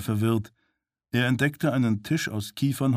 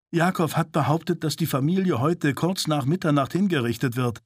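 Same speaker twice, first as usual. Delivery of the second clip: higher, urgent desperate plea; 5 semitones higher than usual. Acted. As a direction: beg them to believe the deadline. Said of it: "sagte Sorg verzweifelt". (verzweifelt und drängend)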